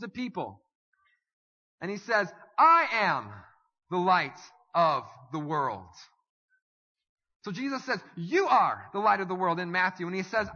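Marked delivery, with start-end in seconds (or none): 2.6-5.9 loud, ringing proclamation, slowing on the end; proclaiming shout. Acted. Jesus proclaims to the multitudes. 8.2-9.6 louder, punched verse; emphatic proclamation. Shown as a demonstration. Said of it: "The same sentence, but different".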